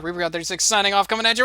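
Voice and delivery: fast sign-off rising into silliness; quick, over-the-top outro that climbs at the end; crazy sign-off. Pretend. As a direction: rattle off a zany sign-off, ending high.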